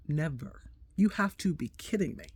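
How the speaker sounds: soft, low, flat refusal; quiet mock horror; hushed disbelief. Her own shocked refusal.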